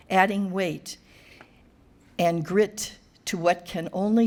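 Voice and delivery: measured, deliberate poem reading with spacious pauses; poetry reading. Acted. Poet reading to an audience for her granddaughter Sylvie, measured recital. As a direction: read it as verse, phrase by phrase.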